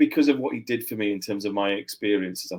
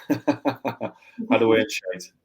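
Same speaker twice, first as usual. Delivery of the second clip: Geordie accent; 4 dB louder, much slower than usual. Real, not acted. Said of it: "You've got a good, good Geordie accent".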